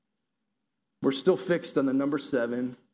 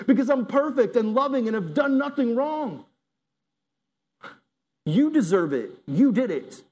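mock indignant; 5 semitones higher than usual. Imagined Jesus refusing the cross, indignant and rising.

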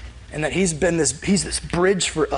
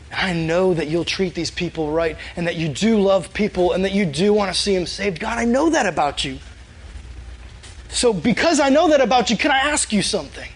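trusting plea building from calm to insistent; earnest appeal, climbing in pitch toward the request; intimate appeal; 2 semitones higher than usual. Acted. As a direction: respectfully build up to asking a favor. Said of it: "You hear the difference in the tone of voice".

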